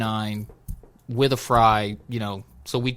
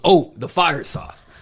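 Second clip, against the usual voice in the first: slow, higher drawn-out "oh"; mock sudden realization; 4 semitones higher, slower than usual. Worker remembering the fire sauce, mock surprised. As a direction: imitate someone just remembering, stretched out slowly.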